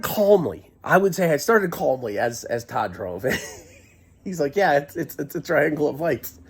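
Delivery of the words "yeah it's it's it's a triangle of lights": low, calm retold reply. Driver answering his excited passenger, imitated as calm. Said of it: "he was so calm".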